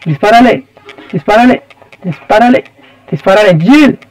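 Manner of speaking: urgent, tense repeated commands; pressing the character to fire now; being chased. Real, not acted. Urging character while being chased. (urgente, perseguido)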